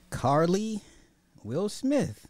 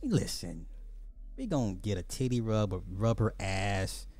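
low mock preacher addressing the men; deep bro preacher voice; 8 semitones lower than usual. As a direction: call the brothers in close with a low voice. Host mock-preaches to the brothers.

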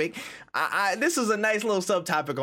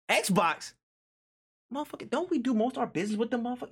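much higher, rapid disbelief; panicked Sony staff; 8 semitones higher, faster than usual. Retold or imitated. Sony staffer reacting to the acquisition news, high and rushed. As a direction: blurt it fast like the news just hit. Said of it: "They're like".

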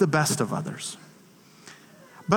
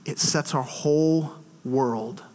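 slow, falling to a whisper; dramatic low fade to whisper; hushed climax; 6 semitones lower, 5 dB quieter, slower than usual. Real, not acted. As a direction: lower and slow down into a hush. Dramatic close of the illustration.

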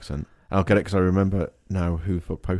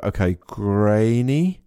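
slow, drawn-out questioning "grainy"; baffled reading of an unfamiliar name; confused mispronouncing reader; 2 semitones higher, much slower than usual. Retold or imitated. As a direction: stretch out grainy as a puzzled guess. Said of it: "and they'll go".

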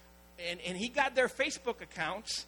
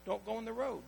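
mild parental warning; 6 dB quieter than usual. Retold or imitated. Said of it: "tell your kids".

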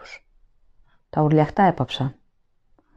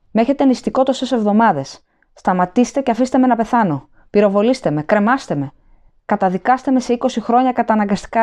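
high, raised, desperate pleading; frantic begging; 5 semitones higher than usual. A narrator's reading. Prisoner begs the officer to take others, frantic pleading. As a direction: plead frantically, offering anyone else.

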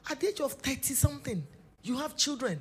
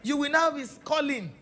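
yelling across the room; 3 semitones higher, 5 dB louder than usual. Retold or imitated. Mother calling child across house.

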